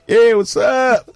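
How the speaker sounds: high, slow put-on American twang; exaggerated imported accent; mock foreign accent. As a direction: show off a newly picked-up foreign accent. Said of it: "See that child in, in one year's time".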